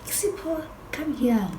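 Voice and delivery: high, insistent imitated summons; calling out. Friend summons Sipho while he's with his boyfriend, high-pitched calling. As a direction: call him over, pitched well up. Repeats Becky's call to Sipho.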